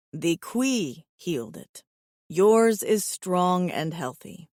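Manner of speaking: low, even alien voice; steady, low and earnest; calm alien suitor. Acted. Alien voice again.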